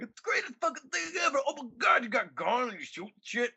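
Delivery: a sarcastic high-pitched fanboy voice; mock hyped fanboy. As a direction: gush like a brainless fan in a high squeal. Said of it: "I'm not gonna be like".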